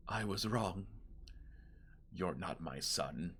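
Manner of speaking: low, soft, slow near-whisper; hushed whisper. Acted. Ghost leaning in to him, holding his face, whispering. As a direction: lean in close and deliver it hushed. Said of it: "she leans in and she whispers".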